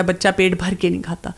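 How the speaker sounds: a hint of a fretting mother; mock mothers' complaint. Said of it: "mothers کا ... یہ رونا ہوتا ہے".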